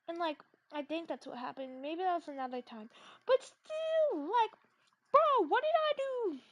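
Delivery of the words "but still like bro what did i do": high and loud outrage; indignant outburst. Real, not acted. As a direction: demand an answer, incredulous.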